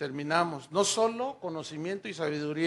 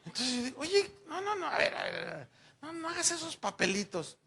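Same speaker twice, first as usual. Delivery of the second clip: high mock pleading; newlywed begging her to stop; exasperated pleading; 11 semitones higher than usual. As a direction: talk her out of the drama. Husband pleading with wife.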